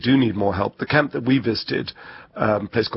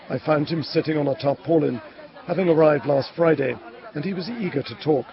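measured, higher reporter voice; news report narration; 4 semitones higher than usual. Acted. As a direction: narrate the report in deliberate phrases.

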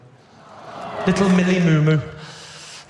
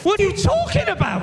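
mock exasperation; 7 semitones higher than usual. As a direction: act utterly baffled, pitched up. Acted row over spelling.

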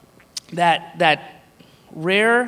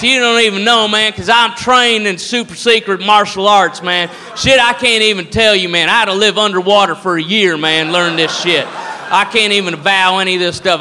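put-on drunk redneck brawler. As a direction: threaten in a barroom with drunk swagger. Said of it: "you get to see a redneck fight".

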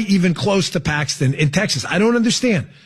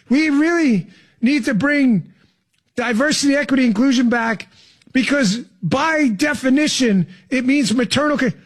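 mock slow repeat; 3 semitones higher than usual. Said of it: "if I say it slower the second time".

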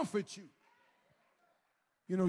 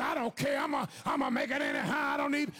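arrogant; 5 semitones higher, 3 dB louder, faster than usual. Retold or imitated. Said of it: "when you get arrogant".

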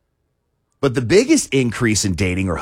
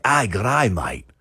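put-on Australian accent. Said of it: "I feel like Australian".

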